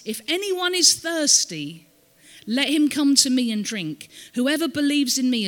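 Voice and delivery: proclaiming. Acted. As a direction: proclaim it to a whole crowd, high at the start. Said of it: "Jesus stands up".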